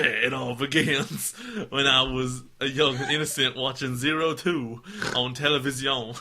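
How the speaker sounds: hammed-up Southern storyteller; mock Southern accent. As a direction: read it as an exaggerated American Southerner. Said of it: "going back to Southern".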